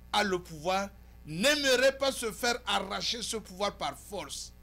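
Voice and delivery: emphatic oratory with long dramatic pauses; impassioned editorial monologue. Acted. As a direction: punch key words, then let them hang. Delivers the announced monologue.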